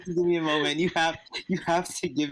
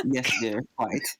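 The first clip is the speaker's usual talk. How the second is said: a hint of a meek husband, lower; dutiful spouse mumbling agreement; lightly voiced henpecked husband, lower; lower meek yes dear; 4 semitones lower than usual. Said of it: "Say it".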